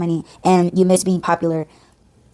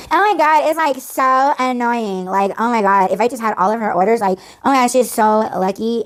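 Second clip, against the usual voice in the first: hammed-up whine, starting high; mocking envy; 4 semitones higher than usual. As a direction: mimic a jealous moaner, stretching the key words. Hammed-up mockery of envious commenters.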